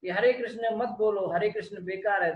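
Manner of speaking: indignant heckler, acted out; mock scolding. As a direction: imitate someone telling off a devotee. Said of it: "तो ऐसे बात कर करके उसको डांट रहा था".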